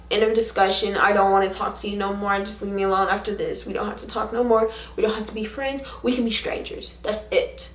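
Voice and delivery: quick, low-volume brush-off; retold angry hurt. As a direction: shut the talk down fast, voice dropping away. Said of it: "I was angry. I was hurt".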